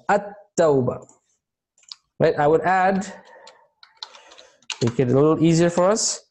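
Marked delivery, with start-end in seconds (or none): 0.1-1.1 At-Tawbah with its opening "a" sounded; alif pronounced. Shown as a demonstration. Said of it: "the alif is being pronounced".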